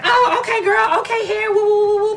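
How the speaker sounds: high mock "oh okay girl"; mock surprise. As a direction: squeal like she's caught off guard. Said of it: "she was just like".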